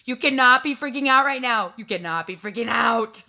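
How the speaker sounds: emphatic self-scolding, loud at first then easing; yelling at herself. Retold or imitated. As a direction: scold yourself firmly out loud. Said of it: "I'm yelling at myself".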